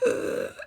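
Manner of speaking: short strained grunt, fairly loud; a choked gasp-grunt; strained ugh, imitated. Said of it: "he was gasping".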